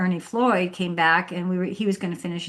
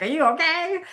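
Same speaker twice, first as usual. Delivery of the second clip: concerned stranger; 9 semitones higher than usual. Retold or imitated. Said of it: "And he's like".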